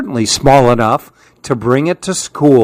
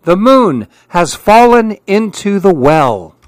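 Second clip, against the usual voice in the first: high, loud cries for help; frightened little monkey screaming up high; panicked shout; 7 semitones higher, 4 dB louder than usual. Acted.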